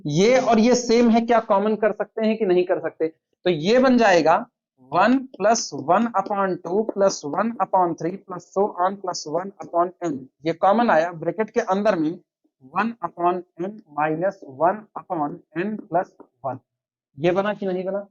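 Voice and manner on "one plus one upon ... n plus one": very slow, word-by-word dictation. Acted. Teacher dictates the inequality for students to copy, very slowly. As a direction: spell it out slowly so the class can write.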